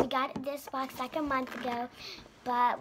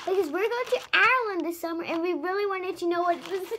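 tearful; 5 semitones higher, 4 dB louder than usual. Real, not acted. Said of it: "I'm about to cry".

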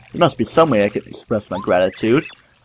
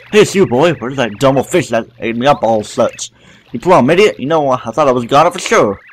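lightly voiced country critter, louder on the insults; folksy scolding; 3 semitones higher, 3 dB louder than usual. Grub scolding Mario after the escape, mildly cranky.

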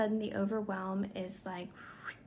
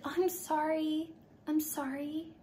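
higher, hurried double sorry; apologetic gym woman; 7 semitones higher than usual. Retold or imitated. Woman at the gym apologizing to the speaker, flustered. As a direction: mimic a flustered woman stepping aside.

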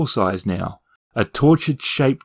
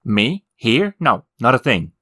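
insisting. Acted. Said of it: "the demon insisted".

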